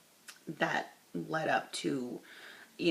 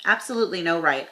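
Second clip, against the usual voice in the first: emphatic reading; 9 dB louder, faster than usual. Retold or imitated.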